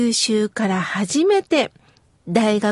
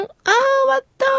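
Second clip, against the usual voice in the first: relieved sigh; 12 semitones higher, much faster than usual. Retold or imitated. Sigh getting into bed.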